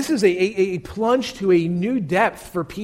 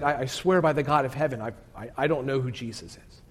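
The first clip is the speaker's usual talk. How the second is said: stammering sworn denial; 5 semitones lower, 7 dB quieter than usual. Retold or imitated. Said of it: "saying something along the lines of".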